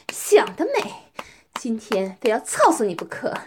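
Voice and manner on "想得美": slow, whispered sneer; mocking whisper. Dominant woman refusing her partner's plea, mocking whisper.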